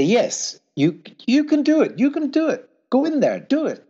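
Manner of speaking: encouraging exhortation. Retold or imitated. To a nervous interviewee before he goes in: high eager encouragement. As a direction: cheer them on like a coach before the big moment.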